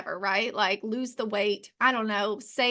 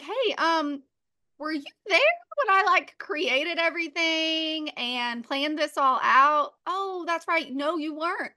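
higher, mocking sarcastic God voice; 4 semitones higher than usual. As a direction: tease them with the question. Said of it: "really sarcastic conversation".

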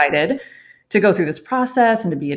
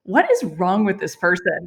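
irritated, laughing. Retold or imitated. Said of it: "I was so irritated".

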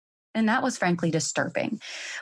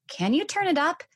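kids' mock yell; 10 semitones higher than usual. Kids asking mom to raise the volume, mock yell. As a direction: holler it lightly from another room. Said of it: "They yell".

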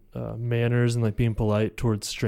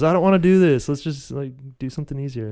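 little B voice; 3 semitones higher, faster than usual. Retold or imitated. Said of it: "that says".

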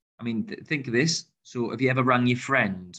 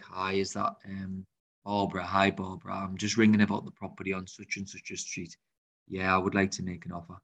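grumpy caller; 2 semitones lower, 4 dB quieter than usual. Shown as a demonstration. Buyer ringing the estate agent with an offer, grumpy and subdued. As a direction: mumble it quietly like a grumpy caller. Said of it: "who's grumpy and who sounds terrible on the phone".

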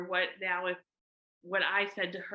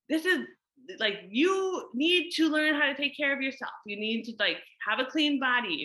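high, loud scolding lecture; a mother laying down the law, irritated; angry lecture; 4 semitones higher, 3 dB louder than usual. Retold or imitated. Mom lecturing daughter Luna about showering, irritated and raised. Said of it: "I wanted to be angry".

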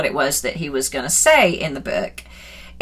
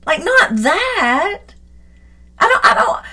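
higher, very slow, stretched protest; drawn-out pleading; 12 semitones higher than usual. Retold or imitated. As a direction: drag it out, begging God to stop. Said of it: "you're like".

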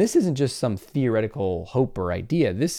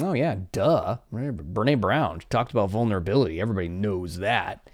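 mildly scoffing, been-there-heard-that; mock dismissive listener. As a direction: act out a know-it-all brushing it off. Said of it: "when you hear me say that, you might be like".

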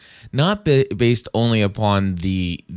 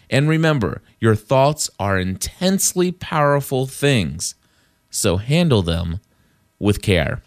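devotional reading. Acted. Reads a devotional text aloud.

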